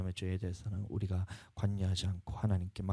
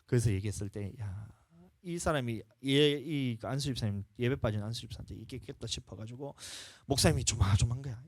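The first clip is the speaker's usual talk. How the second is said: normal talking voice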